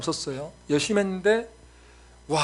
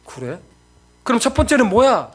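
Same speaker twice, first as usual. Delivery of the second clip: exasperated parent; 6 semitones higher, 8 dB louder than usual. Retold or imitated. Shocked parent questions young daughter.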